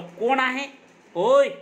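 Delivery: who's-there shout; startled challenge. Acted. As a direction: shout out sharply as if jolted awake. Old man challenges intruders on waking.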